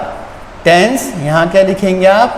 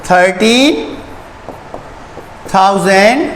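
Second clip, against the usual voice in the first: slow read-out; much slower than usual. Shown as a demonstration. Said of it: "तो ये बना".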